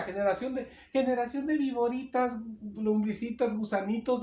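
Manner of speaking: soft, coddling diminutives, no bite at all; softened mock-gentle version. Shown as a demonstration. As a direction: say it sweetly, as if afraid to offend. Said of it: "no que les diga".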